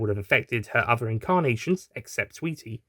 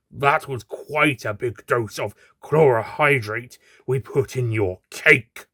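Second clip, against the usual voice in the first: thug; slower than usual. Acted. Thug gloating to captive.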